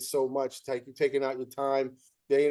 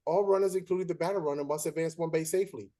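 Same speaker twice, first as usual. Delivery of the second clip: deliberate rule recital. Retold or imitated.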